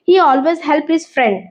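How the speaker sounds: slow reading. Shown as a demonstration. Teacher reads English example sentence.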